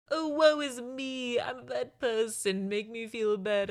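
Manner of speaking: very slow, hammed-up woeful whine; exaggerated weepy lament; mock crying. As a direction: wallow in self-pity, stretching every word. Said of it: "he's still crying through it".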